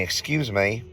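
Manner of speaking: lightly voiced British-accented woman; a hint of a British accent, retold. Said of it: "she had some kind of British accent".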